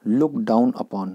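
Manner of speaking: very slow, word by word; drawn out for the class; slow teacher dictation. Shown as a demonstration. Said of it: "teacher announces idiom slowly".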